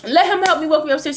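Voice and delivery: slow, high, slurred begging; drunk pleading. Retold or imitated. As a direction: beg the guard like a drunk. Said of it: "I'm like".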